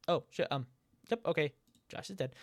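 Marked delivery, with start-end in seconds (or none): 1.9-2.3 quiet. Real, not acted. Breaking the news, first try.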